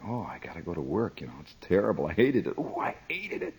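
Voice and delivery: soft, weary groaning complaint; dreading work. Retold or imitated. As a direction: moan it like you dread the day. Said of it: "sick feeling in my stomach".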